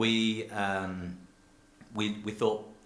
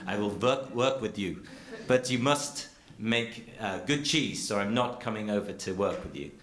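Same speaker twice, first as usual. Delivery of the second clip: self-mocking attempt at a French accent; bad French accent. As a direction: imitate a French cheesemaker, badly. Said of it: "a French accent, but I'm terrible".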